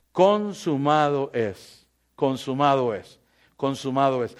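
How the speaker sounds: slow, low and soft dying words; Jesus's last words. Acted. Preacher voicing Jesus on the cross, slow and hushed. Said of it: "Jesús dijo, ¿qué?".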